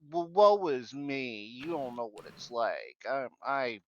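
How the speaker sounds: drawn-out, hammed-up woe; mock self-pity. Speaker mimics fake victims seeking sympathy, mock self-pity. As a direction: play the professional victim, mockingly. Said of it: "they're just doing it just for that".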